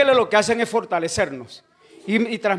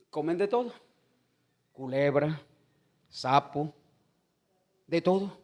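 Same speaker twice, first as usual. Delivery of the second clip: mock brethren murmur; 4 semitones lower, 6 dB quieter than usual. Brethren timidly listing what is eaten.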